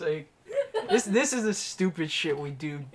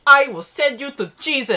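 high, loud Asian-accent imitation; hammed-up Asian accent catchphrase; mock Asian accent; 8 semitones higher, 9 dB louder than usual. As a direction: declaim it in a put-on Asian accent. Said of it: "You're doing the entire quote-unquote Asian accent".

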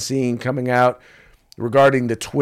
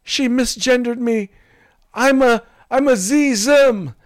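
high, slow whiny offended voice; retelling the masked man's complaint; mock offended attacker; 12 semitones higher, 4 dB louder than usual. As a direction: play the wounded attacker, hammed up. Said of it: "the person says".

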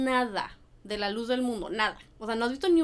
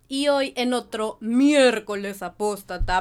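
usual speaking voice

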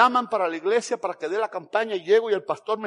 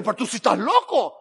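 loud, raised-voice outburst; exploding in protest; 4 semitones higher, 5 dB louder than usual. Retold or imitated. Preacher objecting to God about a month-long campaign, exploding in protest. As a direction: blow up in disbelief, loudly. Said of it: "ahí exploté yo y dije".

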